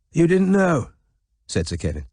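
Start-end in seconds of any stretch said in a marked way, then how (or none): 0.1-0.9 put-on frail old man.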